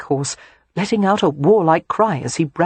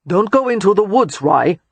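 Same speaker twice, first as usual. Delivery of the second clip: raised voice, calling out; father calling after his child; calling after them; 4 semitones higher, 5 dB louder than usual. A narrator's reading. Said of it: "Cam called after them".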